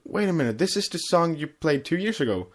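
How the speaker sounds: catching on mid-song; retold realization. Telling a friend how he noticed the song, surprised. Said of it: "I said".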